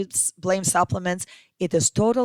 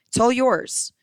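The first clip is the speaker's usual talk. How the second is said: higher and louder, leaning on all; excited offer; 7 semitones higher, 5 dB louder than usual. Acted. Seller tempting a broke listener, excited and loud. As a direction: sell it, punch all with a lift and fall.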